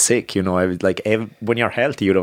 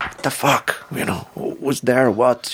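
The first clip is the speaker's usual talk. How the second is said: startled; 6 semitones higher, slower than usual. Retold or imitated. Startled half-asleep reply.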